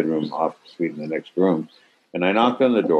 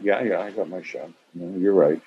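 calm; 4 dB quieter than usual. Retold or imitated. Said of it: "literally quite calmly went".

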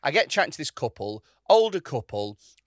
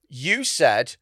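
loud, higher, drawn-out bleating mimicry; mocking put-on voice; 4 semitones higher, 8 dB louder, slower than usual. Woman mimicking what he said in an argument, mocking. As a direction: parrot someone back in meaningless jeering syllables. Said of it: "they put on a voice to the thing I said".

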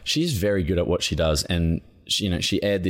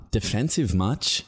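sarcastic jab; 3 semitones higher, slower than usual. Retold or imitated. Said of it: "people that were like".

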